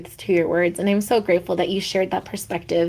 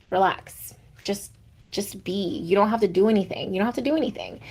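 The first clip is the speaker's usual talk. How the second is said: softer, soothing retold partner voice; gentle reassurance; 5 dB quieter than usual. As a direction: ease her down like a calm partner. Retold partner calming her.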